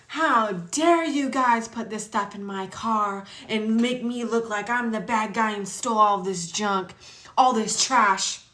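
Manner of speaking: hammed-up parent berating kids; mock scolding. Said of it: "starts yelling at her own kids".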